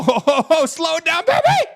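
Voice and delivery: put-on laughing into a high, loud "baby"; cackle, then belt the catchphrase; catchphrase shout. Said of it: "And he says".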